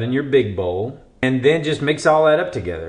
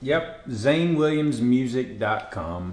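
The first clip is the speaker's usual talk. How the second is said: slow, through a mouthful; mouth full; slower than usual. Real, not acted. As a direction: answer around a bite of pie. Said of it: "while you have your mouth full".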